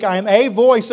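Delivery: "a" said fully as "ay" and stressed. Shown as a demonstration. Preacher pointing out the indefinite article, stressing "a". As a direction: lean on "a", pronounced "ay", before "voice". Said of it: "It's an indefinite article".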